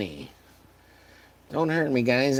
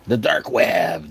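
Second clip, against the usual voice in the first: ominous; 3 semitones lower, 6 dB louder, slower than usual. Pretend. Ominous naming.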